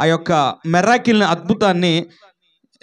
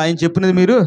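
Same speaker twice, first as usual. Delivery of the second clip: louder and quicker, a call for the congregation to repeat. Shown as a demonstration. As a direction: push it out firmly and faster. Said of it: "గట్టి చెప్పాలి". (గట్టిగా, వేగంగా చెప్పండి)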